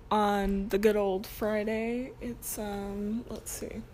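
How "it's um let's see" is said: whispered aside to herself; whispering. Real, not acted. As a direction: whisper while checking. Checking the date aside.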